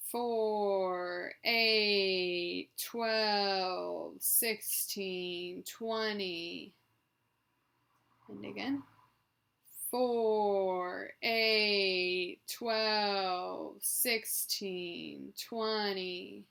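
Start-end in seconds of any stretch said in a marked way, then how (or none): 0.1-6.7 loud, drawn-out numbers running smoothly together; strung-out counting. Shown as a demonstration. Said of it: "just to string out the numbers". 9.9-16.4 loud, drawn-out numbers running smoothly together; strung-out counting. Shown as a demonstration. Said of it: "just to string out the numbers".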